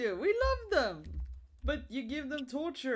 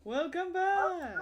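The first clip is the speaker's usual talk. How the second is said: Agent Smith voice; 7 semitones higher, slower than usual. Acted. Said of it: "haven't you seen The Matrix".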